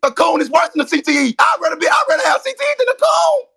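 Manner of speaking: high-pitched indignant protest; yelling. Real, not acted. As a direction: voice climbing high as you argue back. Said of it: "You coming up here yelling it".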